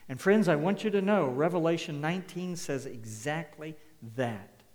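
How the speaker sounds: loud, fast pulpit call; rising sermon urgency; fervent preaching. Acted. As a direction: fire it at the congregation. Preacher's fervent appeal to congregation.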